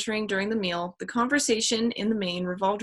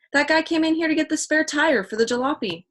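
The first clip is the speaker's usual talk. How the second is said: higher, eager explanation; excited; 8 semitones higher, 3 dB louder than usual. Acted. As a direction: keep the excitement rolling. Chet excitedly explains discovery.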